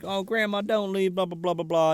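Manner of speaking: lightly put-on whiny plea; half-hearted begging that fades into filler; mock pleading. Granddaughter says goodbye to grandma, half-hearted mock plea. Child begs grandma to stay.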